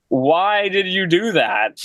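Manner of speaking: high, slow mock disbelief; imitating the shocked band asking; stunned question. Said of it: "we were just like".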